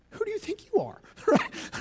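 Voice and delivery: high, squeaky mock outrage; teasing falsetto jab; mock indignation. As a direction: play the offended skeptic for laughs.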